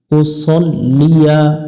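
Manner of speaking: slow উসল্লিয়া with a short first vowel; drawn-out উসল্লিয়া with the double l held; correct Arabic. Shown as a demonstration. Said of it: "অনেকজনে ভুল করে উসাল্লিয়া".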